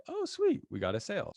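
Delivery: high squeaky oh sweet, then dropping back; mock delight. Seller seeing the first sale, squeaking with delight. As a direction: pop way up on sweet like a happy surprise.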